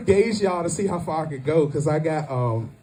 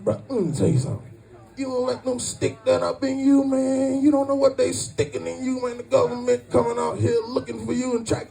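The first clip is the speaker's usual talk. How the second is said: put-on warning voice, rising higher; impersonated dude; 5 semitones higher than usual. Comic imitates guy warning against vaccine, put-on voice. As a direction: warn them in the guy's voice. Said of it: "I'm gonna do this voice a lot".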